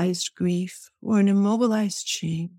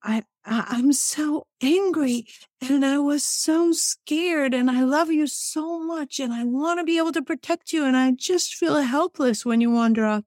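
angry but loving; 5 semitones higher than usual. Retold or imitated. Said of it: "the mix of anger and love".

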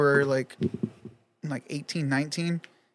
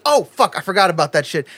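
sudden realization; 3 dB louder than usual. Retold or imitated. Doctor suddenly remembering the patient's accident, surprised. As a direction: blurt it out as it dawns.

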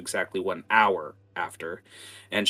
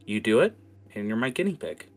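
calm witch voice; 3 semitones higher than usual. Acted. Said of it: "she calms down and says".

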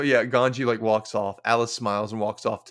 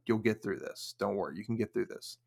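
soft, lower comforting quote; gentle reassurance; 3 semitones lower, 7 dB quieter than usual. Retold or imitated. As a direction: quietly reassure a friend, lightly acted. Retold comforting of a sad friend.

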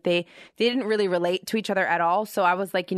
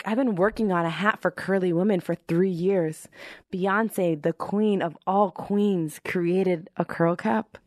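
retold heartbreak; slower than usual. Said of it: "I actually cried on the couch".

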